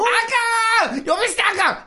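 sharp, high, loud protest; あかん！ drawn out slowly, then snap it; indignant shout. Acted. Outraged at disrespect to boss. (憤慨した叫び)

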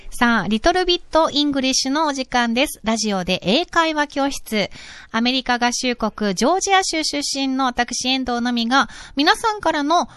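neat radio presenter read with a high title call; corner introduction. Acted. English teacher opening her radio corner, announcer style. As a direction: present the segment clearly and evenly.

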